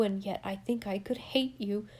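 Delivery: a hushed, wounded threat; bitter whisper. Acted. Jasper whispers his bitterness to Alice. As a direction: breathe it, bitter and hurt.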